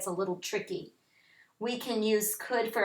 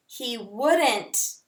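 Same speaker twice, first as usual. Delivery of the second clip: slow, careful example sentence; 2 semitones lower, slower than usual. Shown as a demonstration. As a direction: read it slowly for the class. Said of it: "You could say something like".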